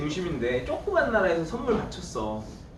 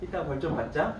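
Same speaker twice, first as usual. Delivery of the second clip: softer, gentle wheedling voice; soft coaxing; 3 dB quieter than usual. Shown as a demonstration. Teacher soothing a tired student as the appeasement policy, soft coaxing. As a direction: coax the sleepy student kindly. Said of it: "회유책은".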